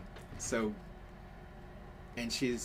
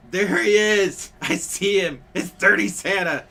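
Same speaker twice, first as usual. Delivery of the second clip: high, very loud imitation of a child's yell; little girl yelling; 10 semitones higher, 14 dB louder than usual. Little girl spotting Santa across Walmart, yelling. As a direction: holler it across the store like an excited kid. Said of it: "the little girl would yell really loud".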